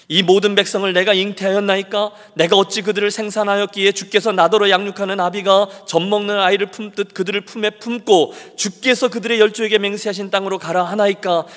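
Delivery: protesting. Acted. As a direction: keep pressing the complaint. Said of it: "계속 항변해요".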